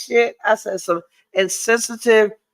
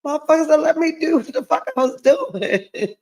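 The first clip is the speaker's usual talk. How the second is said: higher, changed mocking voice; imitating man; 5 semitones higher than usual. Mimicking her man's complaint, hammed-up mocking voice. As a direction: play him complaining, hammed up.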